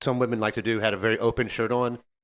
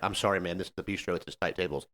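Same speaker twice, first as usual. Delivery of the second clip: quiet apology; 7 semitones lower, 10 dB quieter than usual. Retold or imitated. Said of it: "I'm like".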